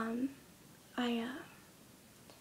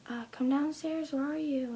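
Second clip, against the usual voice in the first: mild retold call, stretched out and higher; 3 semitones higher than usual. Grandma calls the little girl downstairs, mild retold yell. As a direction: call downstairs lightly, drawing the words out. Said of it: "heard her grandma yelling".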